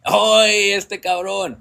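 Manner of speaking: drawn-out, teasing "oy"; amused brush-off. Retold or imitated. Mexican man taking a snub as sarcasm, amused. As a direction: rib a buddy who must be joking. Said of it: "He says exactly like that".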